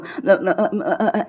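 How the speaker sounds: demonstrating a stuck, stammered hesitation; fumbling. Shown as a demonstration. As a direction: stall on short repeated uh sounds. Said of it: "मैं फ्लम-, fumble करूँ".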